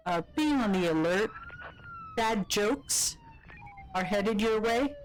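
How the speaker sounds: police dispatcher warning; cop voice. Acted. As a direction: bark it like a patrol cop. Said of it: "in the cop voice".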